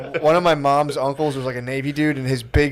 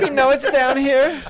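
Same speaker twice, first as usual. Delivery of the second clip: higher, slow mock villain; mock searcher; 11 semitones higher, slower than usual. Nazi searcher insisting, slow mock villain. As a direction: drag it out knowingly.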